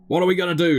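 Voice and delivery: high, anxious character voice; Dredd. Acted. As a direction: voice a worried companion asking for direction. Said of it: "says Dredd".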